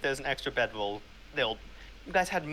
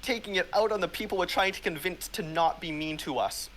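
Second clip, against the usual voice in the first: louder, higher parental scolding; exasperated scolding; 5 semitones higher, 4 dB louder than usual. Acted. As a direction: scold them like a fed-up parent. Mom and Dad are fighting.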